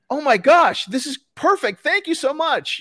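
high, delighted gush; excited woman. Retold or imitated. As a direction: gush with thanks like a thrilled woman. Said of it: "and she's like".

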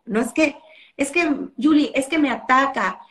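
mock complaining mother; a hint of a whining parent; whiny mom. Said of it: "luego así hablan en Monterrey".

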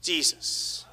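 breathy whispered Jesus; a worshipper whispering Jesus softly; whispered prayer. Acted.

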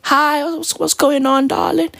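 lightly mocked British sweet-talker; imitating a pop singer. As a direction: do a dainty British darling. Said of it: "this fucking guy will pull up".

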